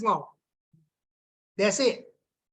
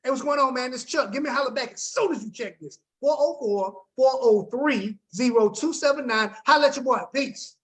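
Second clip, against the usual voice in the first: upbeat voicemail. Shown as a demonstration. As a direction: leave a peppy, confident voicemail. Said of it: "This is my voicemail".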